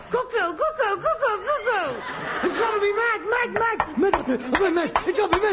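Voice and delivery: high, manic cuckoo calls with a laugh; mad cuckoo imitation. Son mimicking the cuckoo clock, manic and high. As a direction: mimic the cuckoo like you are cracking up.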